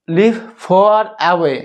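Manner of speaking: reading the phrase very slowly, word by word; slow model reading. Shown as a demonstration. Teacher reads the English phrase to students, very slow. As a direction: spell the phrase out slowly for the class. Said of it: "টোটালটা হচ্ছে sum of her friends".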